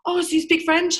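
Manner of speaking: high-pitched imitation of an impressed stranger; mock excitement. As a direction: gush it as a wowed acquaintance would, parodied. Voicing people impressed by French.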